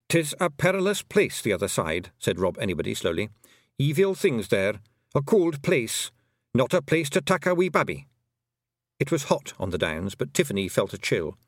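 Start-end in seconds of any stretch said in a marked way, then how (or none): 0.1-2.1 a Feegle chief turning solemn; grave Scottish pixie. Acted. Rob Anybody warns Tiffany of the other side, grave Scots Feegle. 3.8-8.1 a Feegle chief turning solemn; grave Scottish pixie. Acted. Rob Anybody warns Tiffany of the other side, grave Scots Feegle.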